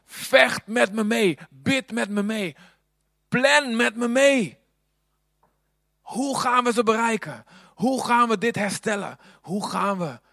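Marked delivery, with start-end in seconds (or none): 0.0-4.6 high, loud, slow battle call; God calling his people to fight, rallying shout. Pretend. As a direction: rouse the troops, each line punched. God's rallying call voiced.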